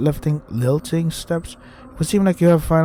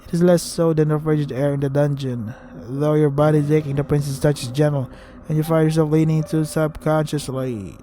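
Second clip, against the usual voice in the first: story narration. Acted. Reads visual novel narration aloud.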